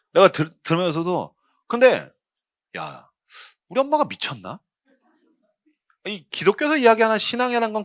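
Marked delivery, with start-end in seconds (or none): none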